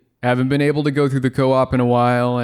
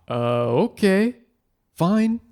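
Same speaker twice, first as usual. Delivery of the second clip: hurt; 4 semitones higher than usual. Acted. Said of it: "sounding hurt".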